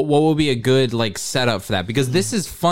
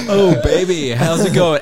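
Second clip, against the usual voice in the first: put-on British accent; 3 semitones higher, 5 dB louder, slower than usual. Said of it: "He sounds so different when Robert takes over".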